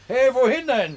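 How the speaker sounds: calling after someone leaving, high and loud. Acted. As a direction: call out to stop him. Calling after departing friend.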